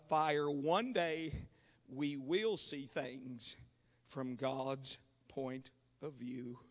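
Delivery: very low, soft and measured; hushed solemn preaching. Real, not acted. Preacher tells of God revealing what was there, hushed. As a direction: let each phrase settle in a long pause.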